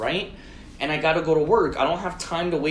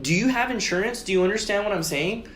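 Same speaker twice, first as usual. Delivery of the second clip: higher, insistent questions; exasperated questioning; 5 semitones higher than usual. Retold or imitated. Driver repeats himself to silent man, insistent retold questioning. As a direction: spell it out for someone not following.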